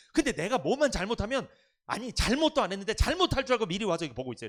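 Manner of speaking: half-laughing rant about being watched; amused indignant griping; laughing complaint. Real, not acted.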